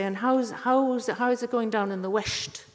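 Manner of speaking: quoting her friends with a mock superior lilt; mocking Dublin friends. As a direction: take off the patronising Dubliners. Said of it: "friends say".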